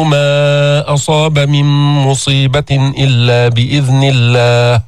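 slow, measured tajweed chanting; Quran recitation. Shown as a demonstration. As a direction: recite carefully as a model for the class. Recites verse for class.

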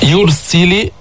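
يرسل with a thick ر after the "u"; careful recited "yursil" in يرسل, full ر; heavy ra. Shown as a demonstration. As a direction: darken the ر in يرسل. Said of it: "فخمنا الراء".

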